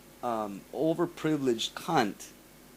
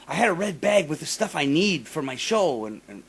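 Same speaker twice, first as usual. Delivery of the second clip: demanding complaint; 6 semitones higher, 4 dB louder than usual. Retold or imitated. Mocking the singer demanding her lost bag, high and loud. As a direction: whine it like a spoiled diva. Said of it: "she comes out and she goes".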